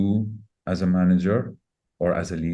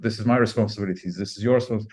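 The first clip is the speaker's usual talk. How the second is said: raised, fast, higher-pitched bickering; mock heated argument; 4 semitones higher, faster than usual. Husband imitating himself arguing with his wife, heated and fast. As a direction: rattle it off like a stubborn husband mid-fight. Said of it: "and I argue".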